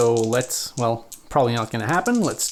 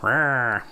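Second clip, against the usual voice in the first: small mock growl; a token monster "rah"; playful monster roar. Player sets the monsters on the board, playful roar. Monster noise while placing Mariods.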